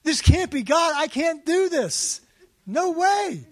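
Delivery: high, loud frantic pleading; anxious high-pitched refusal; panicked protest. Retold or imitated. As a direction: panic at the thought. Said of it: "I'm saying".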